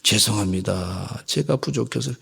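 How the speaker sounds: bow down and apologize meekly; meek apology. Retold or imitated. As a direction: pastor retelling his meek reply to a rude caller. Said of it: "그래서".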